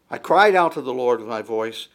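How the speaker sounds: "cried out" punched loud; loud verse reading led by a strong "cried out"; stress on cried out. Shown as a demonstration. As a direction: hit "cried out" hard, then ease off. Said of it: "the emphasis within the passage".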